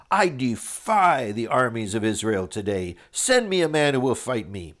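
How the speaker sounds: mild boastful giant daring the army; Goliath's challenge. Acted. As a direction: read the taunt like a swaggering champion. Reads Goliath's challenge aloud.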